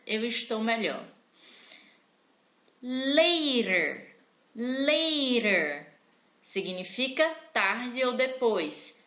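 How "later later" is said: Later with a tapped t, "lêirer"; model pronunciation. Shown as a demonstration. Teacher modelling later with a tapped t, "lêirer". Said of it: "word list".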